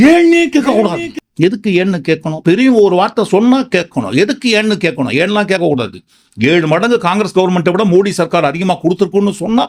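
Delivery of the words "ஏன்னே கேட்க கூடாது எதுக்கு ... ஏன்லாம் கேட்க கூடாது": mock arrogant official. Mocking government refusing questions.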